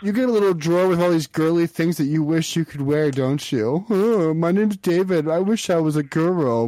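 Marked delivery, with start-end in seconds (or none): 3.9-6.7 lightly put-on dim voice to ridicule the caller; David. Mocking David in first person.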